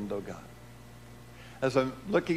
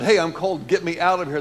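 louder, higher call from the ice; waking up calling out; 3 semitones higher, 7 dB louder than usual. Retold or imitated. Boy waking in the ice calls to the doctor, raised voice. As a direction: call out to be let out. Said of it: "And so I said".

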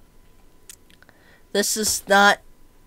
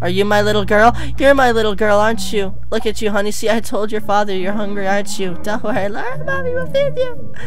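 put-on high, loud sing-song mother cooing to her baby; loving mother's high baby talk; 5 semitones higher, 6 dB louder than usual. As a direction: coo at the baby like a doting mother.

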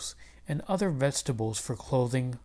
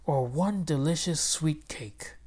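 wistful whisper. Acted. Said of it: "wished Mister Haktak".

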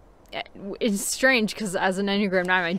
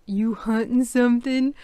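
landlady's higher-pitched Southern drawl; 4 semitones higher, 3 dB louder than usual. Acted. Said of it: "when his landlady is drawing".

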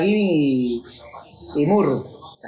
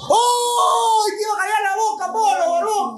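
shouting; 13 semitones higher than usual. Real, not acted. Goal chance, shouting at player.

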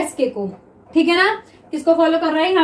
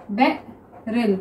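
slow drawn-out reading; 4 semitones lower, 4 dB quieter, much slower than usual. Shown as a demonstration. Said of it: "next देखिए barrel".

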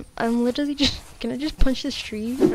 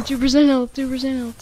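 laughing; 4 semitones higher, 6 dB louder than usual. Real, not acted. Low health alarm.

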